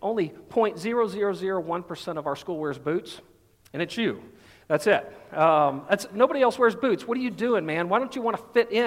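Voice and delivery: hammed-up jock razzing the new kid in boots; mocking jock. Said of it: "As one guy on the football team says".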